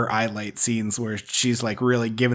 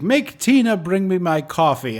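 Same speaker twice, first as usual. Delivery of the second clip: a louder, higher imitation of a bossy demand; mock yelling; 5 semitones higher, 6 dB louder than usual. Mother ordering the maid about, in a mock yell. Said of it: "is yelling at".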